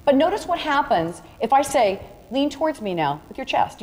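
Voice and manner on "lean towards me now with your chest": softer, easy "Lean towards me now with your chest"; gentle photographer's direction, a touch softer; harmless, gentle request. Shown as a demonstration. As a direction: ask it kindly and unthreateningly. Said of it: "the back of the hand becomes harmless".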